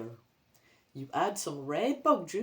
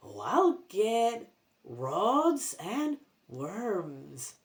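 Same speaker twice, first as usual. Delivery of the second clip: zombie grandma; much slower than usual. Acted.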